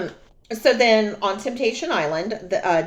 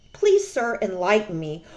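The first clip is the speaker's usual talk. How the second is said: sarcastic. Retold or imitated.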